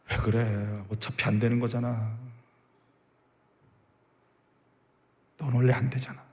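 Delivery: low, quiet, deflating murmur; discouraging inner voice. Acted. One's inner Eliab saying it will never work, quiet discouragement. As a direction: softly talk them out of trying.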